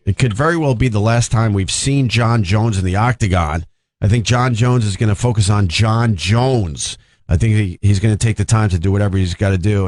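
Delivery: reading an article aloud; news read. Acted. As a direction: deliver it like a news report. Reads the article on air.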